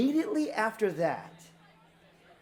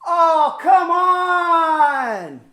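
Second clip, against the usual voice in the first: high, loud protesting yell; 8 semitones higher, 11 dB louder, much slower than usual. Retold or imitated. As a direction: shout it across the room, begging. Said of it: "he yells out".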